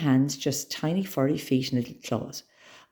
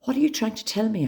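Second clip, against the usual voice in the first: high, urgent asking; frantic girl questioning her cat; 8 semitones higher, faster than usual. A narrator's reading. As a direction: press the frog for an answer, frantic. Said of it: "I said frantically".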